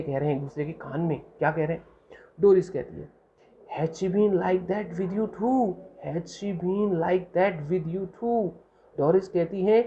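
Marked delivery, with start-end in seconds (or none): 3.8-8.5 slow read-aloud. Shown as a demonstration. Teacher reads Doris's line slowly.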